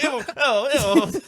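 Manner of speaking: high grossed-out squeal; disgusted squeal. Retold or imitated. Imitating Pat again.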